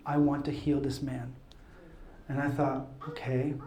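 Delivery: low, soft and subdued; hushed. Retold or imitated. Recalling God's prompt to heal a man, hushed. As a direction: drop to a quiet, inward voice.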